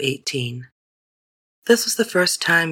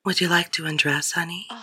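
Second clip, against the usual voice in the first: low excited voice. Acted. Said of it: "in a low, excited voice".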